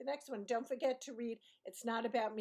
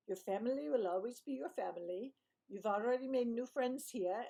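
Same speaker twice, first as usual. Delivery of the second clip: lightly imitated Indian English; a hint of Indian accent, imperfectly done. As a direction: retell it with a rough Indian accent. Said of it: "I don't do Indian accents great".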